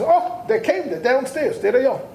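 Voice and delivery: eager shout from the window; excited worker. Retold or imitated. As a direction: worker calling out that the shipment has come. Worker spots the armored truck.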